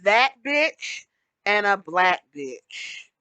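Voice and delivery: slow, stressed "that bitch" against "black bitch"; stressed contrast. Shown as a demonstration. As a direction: draw out each word to mark the contrast. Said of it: "There's a difference between".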